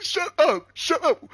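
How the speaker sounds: loud, high panicked hushing; frantic shush. Retold or imitated. He hushes his cousin with grandma next door, loud panic. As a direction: shut him up fast, loud and urgent.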